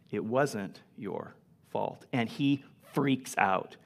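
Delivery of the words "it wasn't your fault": tender insistence. Retold or imitated. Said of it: "And Williams said".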